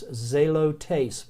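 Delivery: zelotes, slow, with a clear Z at the start; slow Greek word. Shown as a demonstration. Teacher stressing the starting z, slowly. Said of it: "that z at the beginning".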